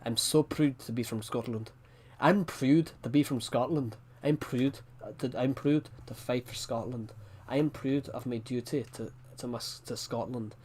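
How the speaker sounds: put-on Scottish accent. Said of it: "it's hard to understand".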